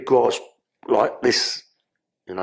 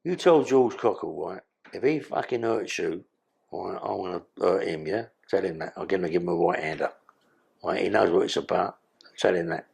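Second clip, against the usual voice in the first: low menacing warning; 5 semitones lower, 3 dB quieter than usual. Retold or imitated. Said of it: "I went".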